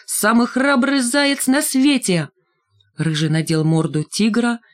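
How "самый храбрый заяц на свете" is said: mild drawn-out cry in a higher voice; storybook child's bold cry, stretched out. A narrator's reading. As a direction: cry out a slow, high-pitched boast. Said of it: "и закричала".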